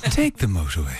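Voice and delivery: put-on low, smooth Irish accent; put-on Irish voiceover, low and measured; Irish sat-nav voice. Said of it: "say it again, Sean".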